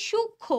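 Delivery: সূক্ষ্ম as shuk-kho with no m; careful pronunciation. Shown as a demonstration. Teacher contrasts it with the previous word, careful pronunciation. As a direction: say সূক্ষ্ম in two parts, m silent. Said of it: "এখানে আমি কিভাবে উচ্চারণ করতেছি?".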